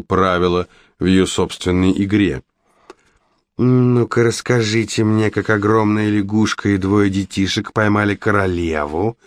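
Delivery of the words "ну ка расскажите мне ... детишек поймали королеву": hissing witch. Acted. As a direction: hiss it like a suspicious witch. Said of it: "прошипела ведьма".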